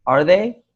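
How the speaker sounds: THEY swept up high; rising question intonation. Shown as a demonstration. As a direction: ask it, pitch climbing on THEY. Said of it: "my pitch got higher".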